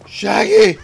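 loud call across the map. Real, not acted. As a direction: shout the name to get attention. Calling out again.

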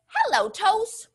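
"Hello" lifted high and bright; cheery hello. Shown as a demonstration. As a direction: greet the toes high. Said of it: "We're gonna say".

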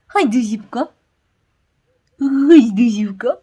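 high, loud coaxing call; calling the dog. Real, not acted. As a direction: coax the puppy to come. Calling the puppy to come. (przywoływanie psa)

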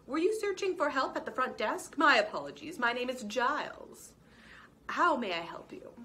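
a lightly voiced, eager hotel clerk; courteous and a bit fussy; polite lizard clerk. Lizard clerk Giles greeting the mouse at the desk, lightly voiced.

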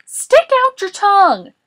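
high, loud shouted command; Boris. A narrator's reading. Boris ordering a reluctant Morris, shouting. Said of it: "Boris shouted".

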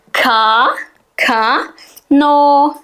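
Ka, ka, no split into syllables; sounding out syllables. Shown as a demonstration. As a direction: sound out ka then no. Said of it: "İlk duyduğum sesi yazıyorum".

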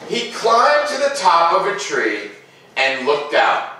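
put-on gentle read-aloud to children; storybook narration. A narrator's reading. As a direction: tell it like a bedtime story. Reads picture book aloud.

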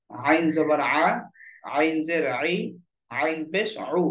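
"আইন", "আ", "আই", "উ" squeezed from the middle of the throat; mid-throat ayn. Shown as a demonstration. Teacher drilling the letter আইন for learners, voiced from mid-throat. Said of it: "কণ্ঠনালীর মধ্যখান থেকে আওয়াজটা বের হবে".

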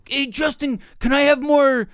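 put-on Hispanic-accented begging. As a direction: imitate a pestering kid in a mock Hispanic accent. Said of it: "Why are you doing that Hispanic accent?".

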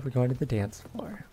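whispered reply, no voice; hushed playful whisper. Acted. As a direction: breathe it out as a secret.

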